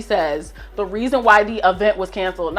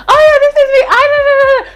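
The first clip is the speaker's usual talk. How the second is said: mock eager promoter; 6 dB louder than usual. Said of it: "promote it and say".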